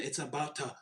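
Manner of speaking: breathy secret whisper, almost no voice; teasing whisper. Acted. Teasing prediction, dropped to whisper.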